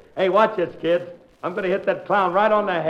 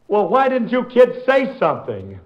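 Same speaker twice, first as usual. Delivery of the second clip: exasperated; 3 semitones higher than usual. Acted. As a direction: blow up at the kids. Wallet stolen, kids silent.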